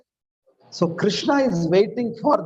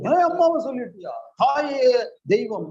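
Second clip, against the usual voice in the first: higher, fast mock-angry filmy line; mock film dialogue; 5 semitones higher, much faster than usual. Someone scolded his mother, so a mock-angry filmy outburst. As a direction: ham it up like a film hero defending mother. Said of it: "Like that, we will say dialogues".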